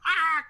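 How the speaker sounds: high, loud imitated cackle; mock schoolgirl cackle in one burst. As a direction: let out a high, silly cackling cry. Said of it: "cackling like a schoolgirl".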